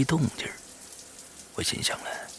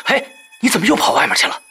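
higher, louder, fast sharp question; irritated tone; 11 semitones higher, 5 dB louder, faster than usual. Acted. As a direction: snap at her, irritated. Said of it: "语气不是太好".

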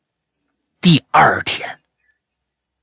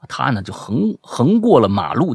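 normal talking voice

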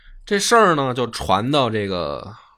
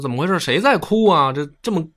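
raised, irritated demand; annoyed An Lushan; 7 semitones higher, 4 dB louder than usual. Retold or imitated. An Lushan demanding who weeps at his feast, irritated. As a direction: bristle at the crying that spoils his day.

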